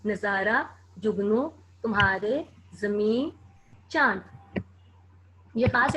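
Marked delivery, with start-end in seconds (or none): 0.1-4.2 each word set apart, rising at the end, like a dictation list; teacher listing dictation words. Shown as a demonstration. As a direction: read the words out one by one for dictation. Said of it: "अल्फाज जो हैं इमला के लिए".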